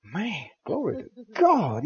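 put-on a young minister quietly proud after being praised; thinking to himself. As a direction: say it under your breath, pleased with yourself. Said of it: "he thinking".

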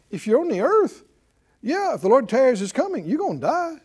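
ordinary talk, nothing marked

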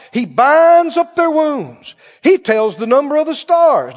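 emphatic, celebratory psalm reading; preaching scripture. Acted. Preacher praising God from the psalm, emphatic preaching. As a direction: open strong, then proclaim each verse firmly.

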